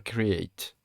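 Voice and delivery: slow, careful English accent on "Create"; "Create" drawn out with an attempted English accent. Real, not acted. Tutor telling viewers to click Create, showing off an English accent. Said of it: "T'as vu l'accent anglais que j'ai".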